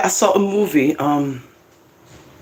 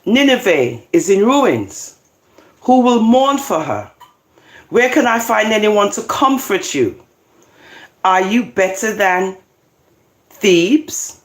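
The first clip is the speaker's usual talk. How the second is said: slow, declamatory Bible reading; scripture reading; 4 semitones higher than usual. Acted. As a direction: read it out with measured pauses and raised pitch. Reads scripture aloud.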